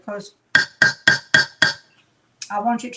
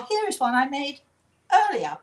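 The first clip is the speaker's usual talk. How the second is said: TV chef catchphrase; 5 semitones higher than usual. Retold or imitated. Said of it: "and the person says".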